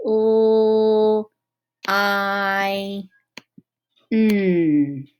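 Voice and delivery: "L, I, N" spelled out one at a time with pauses; name "L, I, N" slowly, each on its own; letter sounds. Shown as a demonstration. Teacher spells lines letter by letter for pupils. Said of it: "say it nice and slowly".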